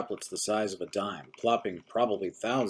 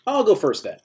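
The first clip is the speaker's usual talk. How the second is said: put-on high, loud chatty old-timer; busybody old man; 9 semitones higher, 10 dB louder than usual. A narrator's reading. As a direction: chatter on, relentlessly cheerful. Old-timer interrupts grinning.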